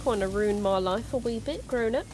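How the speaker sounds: slipping into an Australian accent; accidental, slightly odd Australian twang; weird Australian accent. Real, not acted. Streamer chatting about a childhood fear, weird Australian accent. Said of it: "entered a weird Australian accent".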